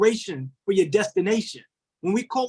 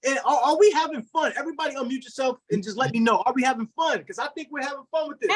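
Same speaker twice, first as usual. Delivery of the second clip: hyped-up call-out; 5 semitones higher than usual. Real, not acted. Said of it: "hyping up the group".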